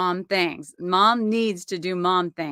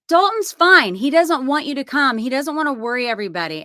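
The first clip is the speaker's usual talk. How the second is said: much higher and louder, speeding up at the end; dismissive daughter; 6 semitones higher, 5 dB louder, faster than usual. Retold or imitated. Daughter Tori telling mom not to come, higher and dismissive. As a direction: brush mom off like a know-it-all daughter.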